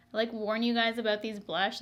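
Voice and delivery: usual speaking voice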